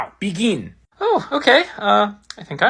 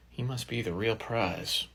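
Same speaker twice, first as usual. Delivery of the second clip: soft breathy whisper; 6 semitones lower, 13 dB quieter than usual. Acted. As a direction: breathe the words out, unvoiced. Closing thought, alone with clue.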